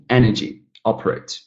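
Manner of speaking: "energy, operate" with EN and OP stressed; first-syllable stress. Shown as a demonstration. Teacher listing examples, first-syllable stress on "energy, operate". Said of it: "first syllable".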